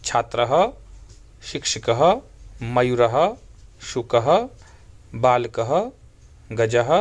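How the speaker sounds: slow, careful Sanskrit word list for repeating; teacher's model pronunciation of Sanskrit nouns; pronounce after me. Shown as a demonstration. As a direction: say each word clearly with a pause. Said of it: "मेरे साथ आप उच्चारण कीजिए".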